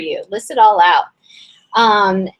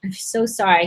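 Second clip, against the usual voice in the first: strained, losing her voice; hoarse voice. Real, not acted. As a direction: voice giving out, a little rough. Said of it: "I feel like I'm losing my voice here".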